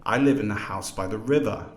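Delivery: main intonation shift on "river"; tonic stress on river. Shown as a demonstration. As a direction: lean on the first syllable of "river". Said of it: "this is called the tonic syllable".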